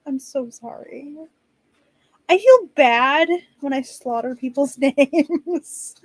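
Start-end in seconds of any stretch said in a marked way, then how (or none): 2.3-6.0 apologetic, with a giggle escaping; laughing. Real, not acted. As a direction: talk through real laughter. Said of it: "I'm laughing right now".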